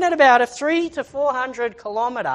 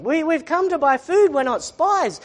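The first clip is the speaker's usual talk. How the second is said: higher-pitched mock plea; appealing; 5 semitones higher than usual. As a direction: plead your innocence, imitating the accused brothers. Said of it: "they're appealing".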